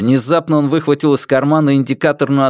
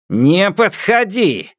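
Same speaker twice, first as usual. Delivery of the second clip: threatening warning; 9 semitones higher, slower than usual. Acted. Kidnapper warns approaching officer.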